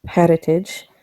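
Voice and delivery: lightly put-on mashup of accents; Tara. Tara asking Japsor never to mention her heritage, mixed-accent character voice. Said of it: "a terrible mashup of multiple accents".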